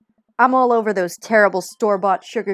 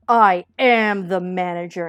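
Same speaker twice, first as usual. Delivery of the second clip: slow, louder, grand reveal; slow booming declaration; 5 dB louder, slower than usual. Acted. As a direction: boom it out slowly like a dark lord. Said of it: "it's like that comic".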